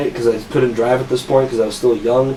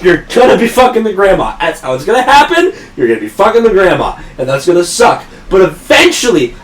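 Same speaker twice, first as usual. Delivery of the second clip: higher, louder excited advice, laughing at first; imitating coworker Brian; 4 semitones higher, 4 dB louder than usual. Coworker giving crude career advice, lightly voiced excited imitation. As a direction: play a grinning old-timer dishing life advice. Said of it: "he immediately cuts into".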